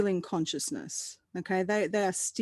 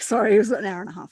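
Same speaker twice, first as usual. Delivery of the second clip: laughing; 5 dB louder, much faster than usual. Real, not acted. Laughs at her own correction.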